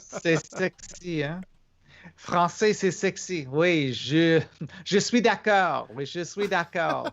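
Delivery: hammed-up French, half speaking French; playful French accent. Cohost answering a viewer in a mock French accent. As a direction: toss off the French lines with a mock French flair. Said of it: "he can speak in a French accent".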